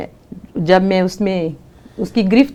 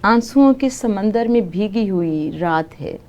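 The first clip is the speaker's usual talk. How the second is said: poem recitation. Acted. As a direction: recite it like at a mushaira. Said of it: "اس میں سے ایک نظم سناتی ہوں".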